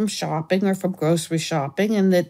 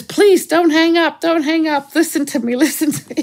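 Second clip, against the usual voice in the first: put-on pleading old man; 8 semitones higher, 5 dB louder than usual. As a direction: beg him to stay on the line, pitched up. Caller begging not to hang up.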